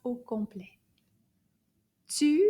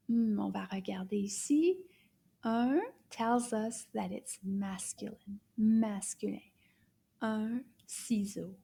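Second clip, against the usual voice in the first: whispered grammar tip; hushed, voiceless explaining. Shown as a demonstration. Teacher whispers the gender rule to the children.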